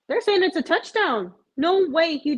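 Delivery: suddenly excited as it sinks in; real excitement at a Hail Mary; excited disbelief. Real, not acted. Realizes it's a touchdown.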